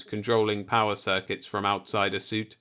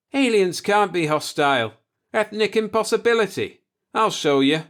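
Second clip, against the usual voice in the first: much higher, louder raving; delirious declaration; 9 semitones higher, 5 dB louder than usual. Acted. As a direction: rant it like a feverish man.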